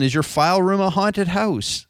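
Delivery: spooky voice. Acted. Spooky Halloween marketing line.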